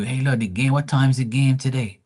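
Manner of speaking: lightly voiced dad ringing up; imitating dad. Acts out dad calling up.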